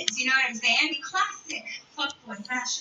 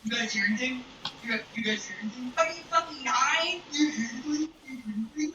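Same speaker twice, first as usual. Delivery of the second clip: mocking ignoring; faster than usual. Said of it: "looked at his friend and was like".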